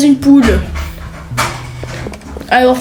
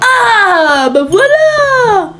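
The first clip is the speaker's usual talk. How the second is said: laughing; 8 semitones higher, much slower than usual. Real, not acted. Disguise exposed, laughing.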